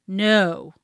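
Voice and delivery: low, firm command; low, growly no. Shown as a demonstration. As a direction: drop the voice low for a correction. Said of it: "Listen to how I say the word".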